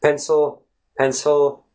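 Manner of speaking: "pencil" as one whole word, light unstressed second syllable; schwa in stride. Shown as a demonstration. Teacher taking it in stride, "pencil" with effortless schwa. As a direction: say "pencil" easily, the schwa just kind of there. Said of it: "you just pronounce the whole word".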